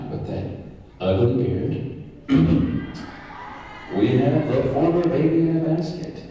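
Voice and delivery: big boxing-match introduction; ring announcer. Acted. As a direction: introduce the fighter to the crowd.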